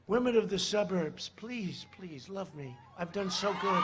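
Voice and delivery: soft, mock pleading; joking plea. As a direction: plead quietly, only kidding.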